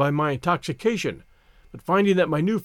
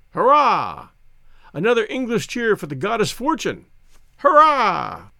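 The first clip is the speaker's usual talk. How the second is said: lively, exuberant drinking toast; tipsy toasting Englishman; 4 semitones higher than usual. Acted. Narrator cheering the old soldier over champagne, exuberant. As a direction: build to cheering hurrahs.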